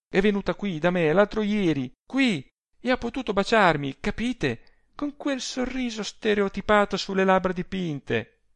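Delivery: high-pitched, heated recounting; indignant. A narrator's reading. Adele tells Rossani of her rival's visit, indignant. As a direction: spill out the outrage.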